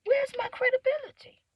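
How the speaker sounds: high, loud cry to the sky; exasperated plea. Real, not acted. Loudly begging the Lord for credibility. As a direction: demand it from above. Crying out to God.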